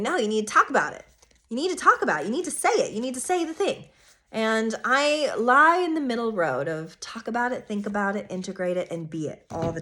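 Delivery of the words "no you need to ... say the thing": insistent Gemini. Pretend. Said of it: "Gemini saying".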